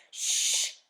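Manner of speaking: sharp hushing; commanding shush. Acted. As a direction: hush her firmly. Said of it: "commanded Mister Popper".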